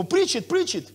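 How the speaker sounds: mock cheer. Pastor voicing an English-speaking congregant's eager cheer. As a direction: egg the preacher on. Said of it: "є така в англійському".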